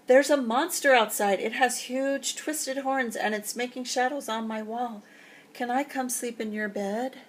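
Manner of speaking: put-on Young Bear begging to climb in bed; frightened cub. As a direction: blurt it out like a scared young cub. Scared cub voiced.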